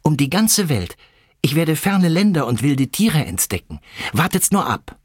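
excited, pitch held high; defiant calling out. A narrator's reading. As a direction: declare the big dream proudly. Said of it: "rief er".

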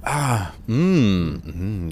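pleased chewing hums. Real, not acted. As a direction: hum while chewing food. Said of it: "jetzt beißt er nochmal richtig ab". (genüssliches Kauen)

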